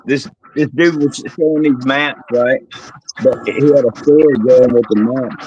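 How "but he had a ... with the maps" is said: muffled bad mic audio. Real, not acted. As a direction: sounds like through a wall. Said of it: "You're muffled again".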